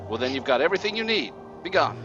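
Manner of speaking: high, impatient hag voice; cranky old witch. Acted. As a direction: snap like an annoyed crone.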